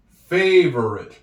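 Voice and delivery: "Favorite" stretched slowly with silent e; slow clear word. Shown as a demonstration. Teacher modelling the word "Favorite" slowly for pupils. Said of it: "silent E".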